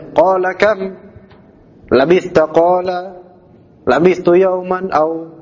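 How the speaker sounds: qala kam labithta read slowly and sloppily; mock the sloppy student reading; careless reading. Shown as a demonstration. Teacher imitating a student's careless recitation. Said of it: "ini ngawur ini bacanya".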